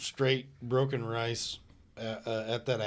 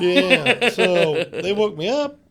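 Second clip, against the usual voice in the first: loud emphatic retelling; 7 semitones higher, 10 dB louder, slower than usual. Retold or imitated. Retold rude awakening.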